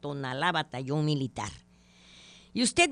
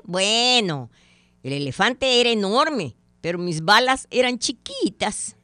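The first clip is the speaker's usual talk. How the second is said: louder, higher, defensive punchline; loud excuse; 5 semitones higher, 8 dB louder than usual. Acted. Hunter excusing his miss to his companion, loud defensive excuse. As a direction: sell the silly excuse proudly.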